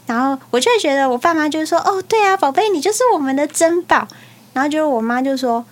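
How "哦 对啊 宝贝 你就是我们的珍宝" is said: higher, lightly gushing parent voice; a touch of mock doting, pitched up; imagined doting parents. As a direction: play a parent cooing to a child.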